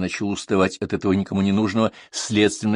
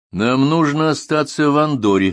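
loud, high, firm declaration; resolute; 7 semitones higher, 6 dB louder than usual. A narrator's reading. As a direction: state it decisively, refusing to budge. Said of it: "решительно заявил Поль". (решительно, твёрдо)

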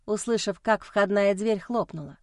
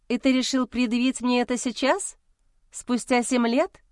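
boiling over; 3 semitones higher than usual. Acted. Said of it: "вскипела я".

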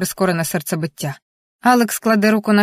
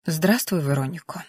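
soft, subdued greeting; quiet; 3 semitones lower, 6 dB quieter than usual. A narrator's reading. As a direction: greet her quietly, voice sinking at the name. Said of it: "тихо каже вона".

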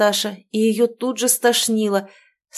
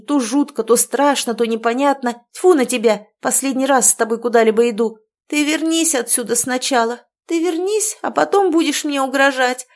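loud, scornful tirade, raised high; furious outburst; 5 semitones higher, 4 dB louder than usual. Acted. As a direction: lash back at the friend who yelled. Quarrel at the lake.

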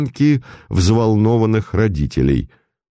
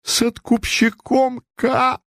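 flares up much higher, slow; flaring up; slower than usual. Acted. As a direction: snap the name out, offended. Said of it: "вспыхнула купчиха". (вспыхнув, намного выше)

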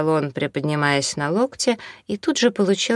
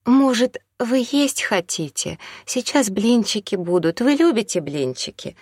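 higher-pitched, hospitable woman's voice; timid kindly woman; 6 semitones higher than usual. A narrator's reading. Second woman offers pancakes to the stranger, hospitable. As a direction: offer food sweetly in a higher voice. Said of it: "подала голос вторая женщина".

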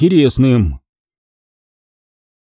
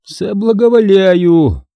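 giggled; 7 semitones higher, slower than usual. A narrator's reading. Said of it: "хихикнул институтский недоумок".

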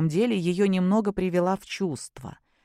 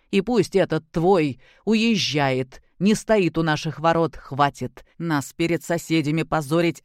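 stern father; 2 semitones lower than usual. Acted. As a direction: lay down the law as the stern grandfather. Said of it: "сказал грозно".

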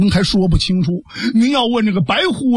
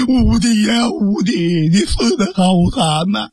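crying lament. Acted. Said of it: "这屋子里边立刻这哭成一片呐".

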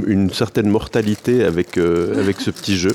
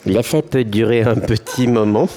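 helium voice; 2 semitones higher than usual. Real, not acted. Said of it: "une petite voix de, de canard".

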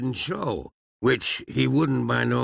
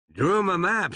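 proud; 7 semitones higher than usual. A narrator's reading. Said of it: "said Phineas, proudly".

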